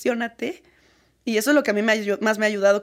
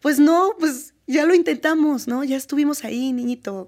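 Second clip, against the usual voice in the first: louder and higher, fed up; loud indignant retort; 5 semitones higher, 4 dB louder than usual. Real, not acted. She answers the ignorant man, loud and indignant. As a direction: snap back at him, exasperated.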